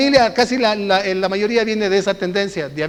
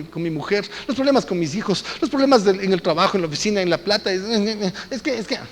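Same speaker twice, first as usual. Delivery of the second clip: pleading excuses; 6 dB quieter than usual. Acted. Peter making excuses.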